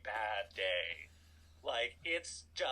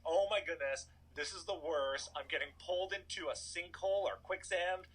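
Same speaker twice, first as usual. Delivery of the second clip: mildly panicked child, retold; mock freak-out; 4 semitones higher than usual. Eight-year-old thinks he's gonna die, mock panic. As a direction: imitate a kid freaking out, lightly raised pitch. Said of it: "this eight-year-old is freaking out".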